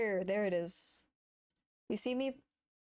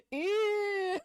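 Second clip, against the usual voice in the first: disgust; 10 semitones higher, 5 dB louder than usual. Real, not acted. Cringing at own old clip.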